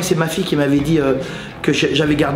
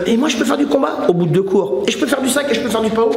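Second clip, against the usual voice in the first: eager beginner; 5 semitones higher, faster than usual. Retold or imitated. Acts an overeager beginner.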